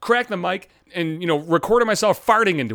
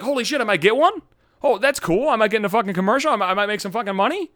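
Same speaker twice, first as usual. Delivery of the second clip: hopeful excitement; 6 semitones higher than usual. Acted. Acting out his own false hope.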